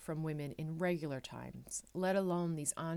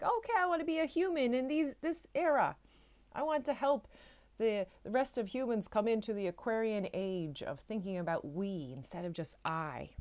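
eager soul before birth; 3 semitones higher than usual. Retold or imitated. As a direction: play a keen soul signing up for life. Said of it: "We were like".

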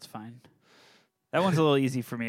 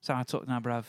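put-on British accent; faster than usual. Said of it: "I'd have to do the British accent too".

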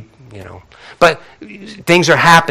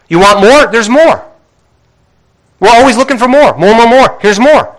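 rising excitement; 7 semitones higher, 4 dB louder than usual. Real, not acted. Preacher building excitement about blessings.

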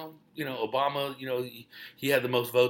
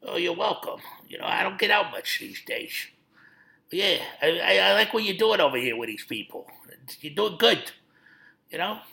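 James Gandolfini impression; 4 semitones higher than usual. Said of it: "we're doing impressions right now".

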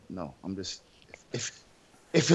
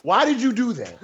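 laughing; 5 semitones higher than usual. Acted. Mock interrogation, laughing.

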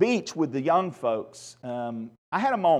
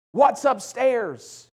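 excited question; 7 semitones higher, much slower than usual. Retold or imitated. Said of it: "She asked excitedly".

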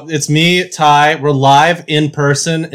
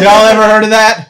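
louder hammed-up catchphrase repeated; 7 semitones higher, 5 dB louder than usual. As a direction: say the running gag once more. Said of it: "Greatest hits alert".

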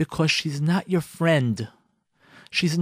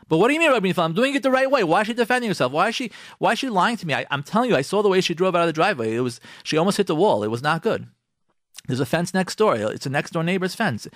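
a husband insisting he is right; mock indignant husband; 2 semitones higher, faster than usual. Husband argues with the rabbi, mock indignant. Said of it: "husband arguing back with rabbi".

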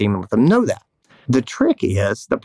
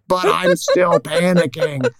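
mock panicked whine; 6 semitones higher, slower than usual. Self-quote, panicking owner to team.

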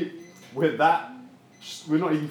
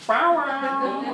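mock sultry; 10 semitones higher, 4 dB louder than usual. Joking about Song of Solomon.

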